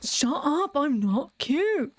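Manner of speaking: high, drawn-out mock protest; indignant little dog. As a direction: voice a small dog insisting on being fierce. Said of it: "you can see her being like".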